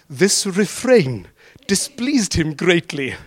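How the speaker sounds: put-on relishing the old phrasing; slow, grand reading. Shown as a demonstration. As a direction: savour each word slowly, half laughing. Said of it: "it's nearly Shakespeare".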